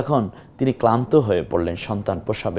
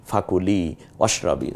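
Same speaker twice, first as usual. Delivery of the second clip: recitation; 3 semitones lower, 4 dB quieter than usual. Shown as a demonstration. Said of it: "এখানে আল্লাহ বলেছিলেন".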